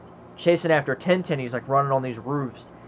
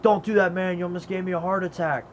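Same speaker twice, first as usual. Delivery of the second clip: higher-pitched startled imitation; mock startled; 5 semitones higher than usual. Fun Boy scolds the crow, mock startled protest. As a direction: protest as if just given a fright. Startled film character retold.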